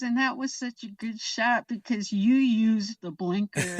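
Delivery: mildly heated mock complaint; retold exasperation. Director blaming the driver's blinker habit, mildly exasperated. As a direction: lightly imitate an annoyed director. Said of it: "Sherman was so mad".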